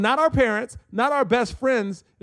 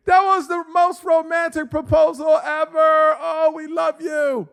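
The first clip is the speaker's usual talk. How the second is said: high, drawn-out group cheer; imitated scream; 9 semitones higher, 3 dB louder, slower than usual. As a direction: scream it like gushing onlookers, slowly. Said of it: "I hear them scream".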